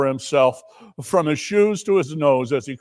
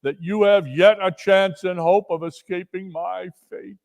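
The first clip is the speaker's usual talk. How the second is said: warning ghost; 3 semitones higher than usual. Acted. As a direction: warn him gravely. Marley warns Scrooge.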